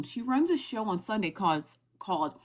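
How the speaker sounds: talking with mouth full of peanut butter. Real, not acted. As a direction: speak through a sticky mouthful. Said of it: "I have peanut butter in my mouth".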